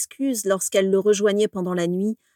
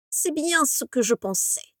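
higher, lightly scornful remark; contempt; 6 semitones higher than usual. A narrator's reading. Voldemort scorning Bellatrix, with contempt. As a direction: look down on her as you say it. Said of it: "dit Voldemort avec mépris".

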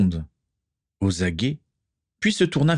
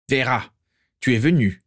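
mild surprise, pitched a little up; understated astonishment in a character's line; astonished; 5 semitones higher than usual. A narrator's reading. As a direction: greet an unexpected visitor with surprise. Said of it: "constata Abraxas Malfoy avec étonnement".

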